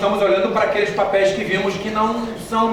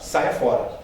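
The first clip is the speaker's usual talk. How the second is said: whispered dismissal; 7 semitones lower, 4 dB quieter, slower than usual. Acted. Answers each warning sign.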